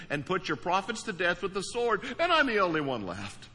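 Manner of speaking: insistent run-on recital; replayed complaint. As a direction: keep it going like a record replaying. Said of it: "the record just keeps playing".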